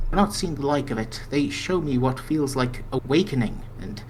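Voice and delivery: lightly voiced dreamy mystic; NPC brother seer. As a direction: read it as a calm mystic.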